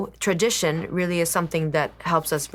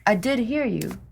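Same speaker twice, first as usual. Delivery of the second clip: whisper; 4 semitones higher than usual. Real, not acted. Wife assuring her husband she heard him, whispered. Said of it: "whispering to husband".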